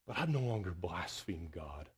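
unvoiced, hushed admission; a soft whispered testimony; whispered confession. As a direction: breathe it out like a private confession. Quiet confession of a believer.

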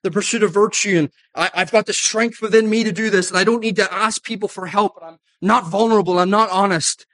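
mock the Stoic's confident voice; imitating a Stoic. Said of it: "if you're a Stoic".

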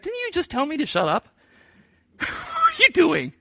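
high laughing disbelief; incredulous laugh. Retold or imitated. Blind beggar teasing the disciples, laughing disbelief. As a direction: laugh at their sudden change.

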